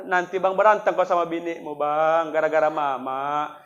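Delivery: a touch of mother's weeping, lightly acted; imitated tearful mother. Mother warning her married son about quarrels over her, mock-tearful. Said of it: "Menangis mama tuh".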